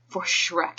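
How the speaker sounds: breathed softly, barely voiced; soft whisper. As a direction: whisper it like a vow. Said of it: "he whispers".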